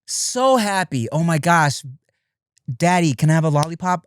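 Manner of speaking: put-on a gleeful kid asking for candy, lightly done; daughter's happy voice. Daughter asking daddy for a lollipop, light high voice. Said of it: "so it'll be like this".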